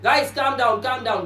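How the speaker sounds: calming a noisy crowd. Acted. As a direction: repeat it to settle a noisy group. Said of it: "बहुत ज्यादा शोर मच रहा है".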